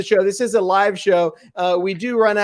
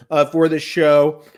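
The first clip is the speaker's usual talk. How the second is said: talking round a piece of ice; words blurred by ice in mouth; mouth full; 2 semitones lower than usual. Real, not acted. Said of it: "a piece of ice got in my mouth".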